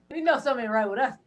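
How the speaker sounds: repeated quickly through a laugh. Real, not acted. Repeating family's line to hosts, laughing. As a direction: let the laugh spill into the words.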